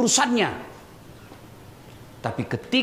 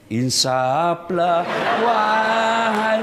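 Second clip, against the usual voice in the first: slow, drawn-out preachy plea; mock pious plea; much slower than usual. Wife gently urging angry husband, slow mock plea. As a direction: stretch Insaflah like a solemn sermon.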